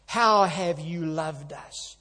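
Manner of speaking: slow, mildly sneering question; sneering sarcasm. Retold or imitated. Preacher mimicking the people's sarcastic reply to God, sneering. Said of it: "hear the sneer and the sarcasm".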